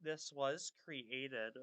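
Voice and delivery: slow, breathless start; winded, pausing to catch breath. Real, not acted. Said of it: "sorry, I'm catching my breath".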